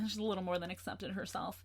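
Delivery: even, matter-of-fact retelling; level, no accusation. Retold or imitated. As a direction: quote it evenly, without blame. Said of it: "delivered in a level tone without the slightest accusation".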